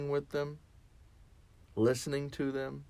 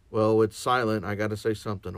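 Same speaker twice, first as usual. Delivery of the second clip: mock panic; 5 dB louder, faster than usual. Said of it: "It's like".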